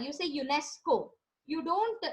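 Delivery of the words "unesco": "unesco" said as one word, yu-NES-ko. Shown as a demonstration. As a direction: say "unesco" as a word, not letter by letter. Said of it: "spell out every letter".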